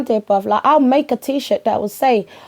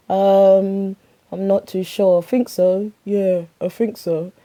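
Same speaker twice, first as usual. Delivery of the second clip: put-on unsure teen son; 2 semitones lower than usual. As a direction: mumble it like you're not sure. Son unsure about homework.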